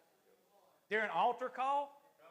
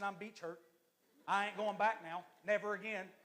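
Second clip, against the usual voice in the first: understated mock grievance at usual pitch; mock hurt refusal. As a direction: sulk lightly, swearing off the place. Mock complaint of beach hurt.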